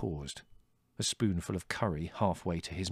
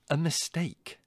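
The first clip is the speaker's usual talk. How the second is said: high, scornful echo; withering; 10 semitones higher, slower than usual. A narrator's reading. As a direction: repeat it with disbelieving contempt. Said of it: "said Larry witheringly".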